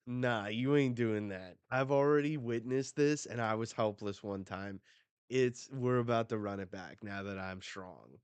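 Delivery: loud, defiant vow; fierce declaration. Retold or imitated. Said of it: "Robin said".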